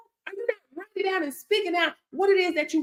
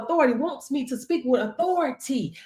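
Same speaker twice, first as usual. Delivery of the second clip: ordinary talk, nothing marked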